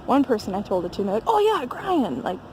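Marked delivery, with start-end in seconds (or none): 1.3-2.2 higher-pitched imitated French accent; lightly put-on French accent. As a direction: mimic a local's French-accented recognition. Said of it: "in, like, their French accent".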